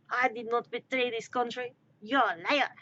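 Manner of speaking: indignant bad French accent; fake French accent. Accused smuggler denying treason, fake French accent. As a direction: deny it in a put-on French Canadian accent. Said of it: "my attempt at a French accent".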